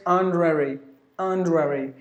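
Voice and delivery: HONORARY in British, squeezed to "on-druh-ree"; British pronunciation. Shown as a demonstration. Teacher showing learners the British way, British pronunciation. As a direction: say HONORARY the British way, middle vowel dropped. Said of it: "otherwise it's British honorary".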